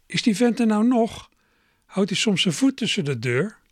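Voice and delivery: lightly voiced annoyed aunt shouting through the house; impatient aunt. A narrator's reading. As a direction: call out, fed up with the visitor. Irritated aunt calling from inside.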